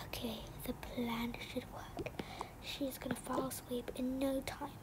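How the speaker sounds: unvoiced, hushed plotting; secret whisper. Kid checking her plan, hushed whisper. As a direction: keep it down, she might hear. Whispering so babysitter won't hear.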